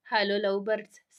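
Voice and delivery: loud teasing call to the couple. Acted. Brother teasingly calls out to the hugging lovers, loud and playful. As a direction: break in loudly on the lovebirds, playful.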